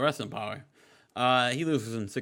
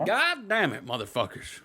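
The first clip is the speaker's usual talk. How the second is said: lightly voiced ranting manager; Jim Cornette; 5 semitones higher than usual. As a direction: open the promo with a mild fed-up rant. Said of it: "he said".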